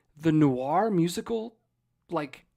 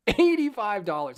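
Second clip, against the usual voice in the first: heated repeat; 3 semitones higher, 5 dB louder than usual. Real, not acted. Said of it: "I'm heated".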